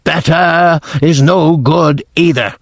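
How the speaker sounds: a scornful ruler rejecting excuses; understated shriek with a German-style accent; Grand High Witch shrieking. Acted. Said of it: "shrieked the Grand High Witch".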